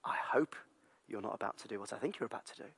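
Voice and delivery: soft, hushed stern warning; warning whisper. Retold or imitated. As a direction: warn him low and quiet. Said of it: "And she says".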